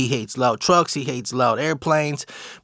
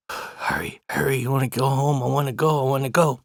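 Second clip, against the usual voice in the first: put-on whiny kid; 5 dB quieter than usual. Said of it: "my son's like".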